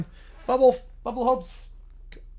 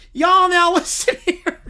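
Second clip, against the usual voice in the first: loud, pompous Southern lawyer voice; 5 semitones higher, 6 dB louder than usual. Acted. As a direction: preach moral outrage to the judge like a Southern showman. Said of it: "Southern blue-haired lawyer".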